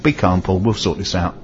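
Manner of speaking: low, soft, calming voice; patient reassurance. Retold or imitated. Repairer soothing a customer who has been shouting, patient. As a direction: quietly settle someone who is upset. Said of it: "he was so patient with me".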